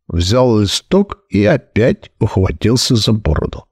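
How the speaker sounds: usual speaking voice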